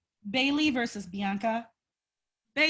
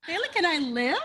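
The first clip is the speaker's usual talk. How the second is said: laughing repeat; 5 semitones higher than usual. Acted. Repeating favorite line, laughing.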